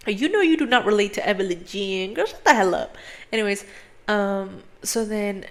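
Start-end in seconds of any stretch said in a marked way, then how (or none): 2.1-3.0 exasperated. Real, not acted.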